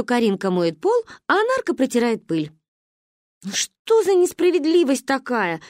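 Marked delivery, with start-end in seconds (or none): 3.4-5.6 запричитали. Acted. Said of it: "запричитали мы".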